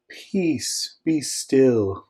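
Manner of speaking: hushed, airy and drawn-out; a too-serene command, barely above a whisper; gentle mock serenity. Shown as a demonstration. Preacher showing how Jesus didn't rebuke the storm, serenely hushed. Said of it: "I don't think that's kind of a".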